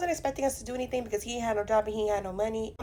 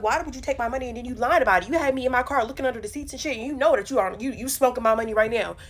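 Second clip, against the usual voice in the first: angry argument; 3 dB louder, faster than usual. Retold or imitated.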